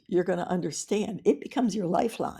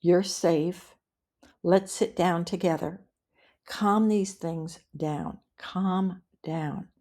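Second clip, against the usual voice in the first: calm reassuring script; slower than usual. Shown as a demonstration. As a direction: gently settle a loved one down. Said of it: "so that you say something like".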